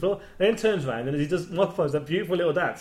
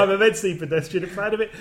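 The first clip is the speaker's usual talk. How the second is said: a bit higher and louder, lightly acting Brian's pride; proud Brian quote; 5 semitones higher, 4 dB louder than usual. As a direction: declare it like Brian, half-hearted. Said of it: "which I think is brilliant".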